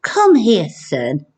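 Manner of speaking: lightly voiced comforting dad; a gentle call to his son; kind dad voice. Shown as a demonstration. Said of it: "What Would Dad Say word bank".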